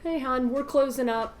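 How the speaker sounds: lightly voiced friendly bartender, easy and casual; a hint of a polite bartender sending a regular home; bartender closing up. Bartender politely telling the lingering customer they're closing. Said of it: "We'll probably just say".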